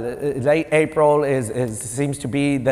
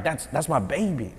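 soft retold recognition; hushed recognition; 7 dB quieter than usual. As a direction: say it quietly, as a doting father. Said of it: "Like that".

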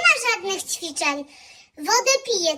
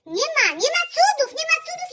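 mock rant; 8 semitones higher, faster than usual. Ranting diet debunk.

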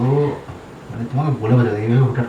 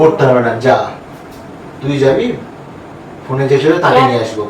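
angry retort. Acted. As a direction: hit back at her, fed up. Husband fights back angrily.

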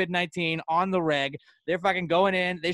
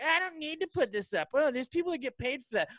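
mocking lazy shopper; 7 semitones higher, 4 dB quieter than usual. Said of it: "And you're like".

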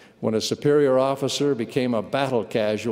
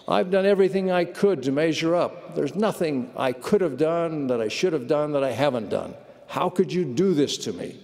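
pitched-up bitter complaint; bitter protest; 3 semitones higher than usual. Retold or imitated. Soldier protesting to God, bitter. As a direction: pour out a grievance. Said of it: "I was as bitter as gall".

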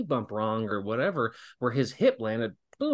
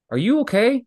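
concerned question; 11 semitones higher, 6 dB louder than usual. Retold or imitated. Asking the wrestler who stayed down.

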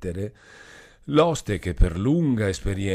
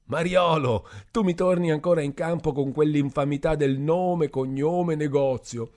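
put-on drunken Renzo; 8 semitones higher, 4 dB louder than usual. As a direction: drag it out like a happy drunk. Drunk Renzo accusing innkeeper.

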